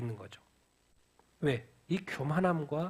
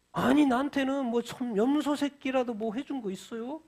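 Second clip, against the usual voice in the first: angry elder son; 6 semitones higher than usual. Retold or imitated. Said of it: "큰 소리 치는 사람이 이 맏아들".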